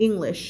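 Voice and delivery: English with a neat, shorter sh; trimmed final sh. Shown as a demonstration. Teacher tones the drill down, English with trimmed sh. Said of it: "ตัดให้มันไม่เวอร์จนเกินไป".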